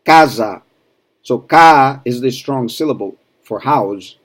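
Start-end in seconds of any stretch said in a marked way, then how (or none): 0.0-0.6 casa with a wide open a in ca. Shown as a demonstration. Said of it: "open a".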